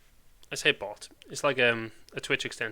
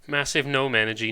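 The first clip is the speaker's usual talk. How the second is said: louder, punchy catchphrase; emphatic call-out; 3 semitones higher, 7 dB louder than usual. Real, not acted. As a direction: throw it out like a slogan. Repeating the gnome joke.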